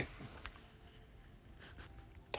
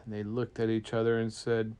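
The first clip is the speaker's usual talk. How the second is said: plain reading voice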